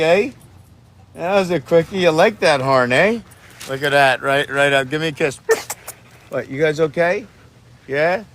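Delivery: high, excited pet voice; doggy talk. Real, not acted. Man calling to his dogs, high excited pet talk. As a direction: coax the dogs up in a high sing-song.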